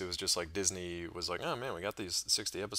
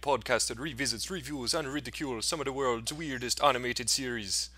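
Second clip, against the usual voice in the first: Island voice; 4 semitones higher, 4 dB louder than usual. Pretend. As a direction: open the show in a laid-back island accent. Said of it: "I did not expect to do that in Island voice".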